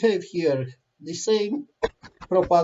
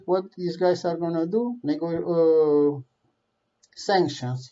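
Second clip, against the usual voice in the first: Putin scoffing. Retold or imitated. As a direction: shrug off the threat with contempt. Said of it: "and said".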